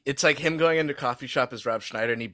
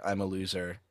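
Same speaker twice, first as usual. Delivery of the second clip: mock drunk mumble; 5 semitones lower, 10 dB quieter than usual. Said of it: "high and drunk at home and was like".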